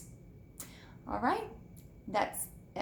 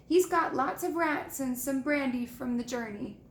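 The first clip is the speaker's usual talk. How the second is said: muffled voice; 3 semitones higher than usual. Acted. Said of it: "said Hagrid in a muffled voice".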